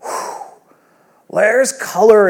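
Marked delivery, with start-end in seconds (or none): 0.0-0.4 acted relief. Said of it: "there's this sense afterwards".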